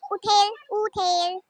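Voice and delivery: drawn-out syllables; slow repeat. Shown as a demonstration. Sister repeats the word nobody gets, slowly stretched. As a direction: stretch each word out for the guesser.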